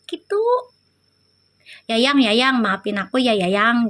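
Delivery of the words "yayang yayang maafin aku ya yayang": mock sweet apology.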